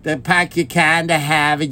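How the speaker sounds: put-on hackneyed Boston accent; lightly mocked Boston accent. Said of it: "when you go to Boston".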